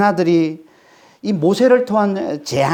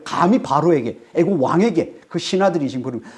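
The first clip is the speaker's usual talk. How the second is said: ordinary delivery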